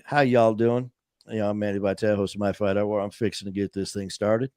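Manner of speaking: light put-on Southern accent, y'all and fixing; a lightly played Southern drawl, hamming up the sign-off; mock Southern accent. Host practising a Southern accent sign-off for Alabama friends, light mock Southern. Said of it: "I'll get me a little Southern drawl".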